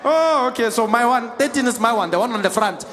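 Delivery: high, loud dawning understanding; exaggeratedly helpful comprehension; mock realisation. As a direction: let the penny drop with a big drawn "oh". Acted sudden realisation of seat mistake.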